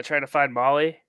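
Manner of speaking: flat robot voice; a hint of a song robot voice. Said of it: "robot voice going".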